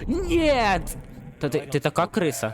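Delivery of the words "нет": sharp high scream of no; gamer's high-pitched no; panicked scream. Real, not acted. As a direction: shriek as the monster grabs you.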